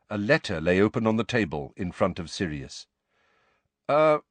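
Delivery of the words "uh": high hesitant "uh"; a short uh to get noticed; hesitant announcing noise. A narrator's reading. Harry announcing his presence, hesitant. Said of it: "to announce his presence".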